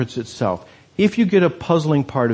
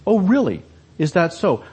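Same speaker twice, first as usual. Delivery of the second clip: sarcastic; 3 semitones higher than usual. Retold or imitated. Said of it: "They're sarcastic questions".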